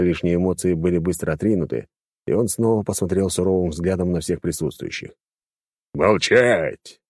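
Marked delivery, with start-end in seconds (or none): 5.9-7.0 loud barked order; harsh barking command. Acted. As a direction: bark it to silence the room. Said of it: "рявкнул он".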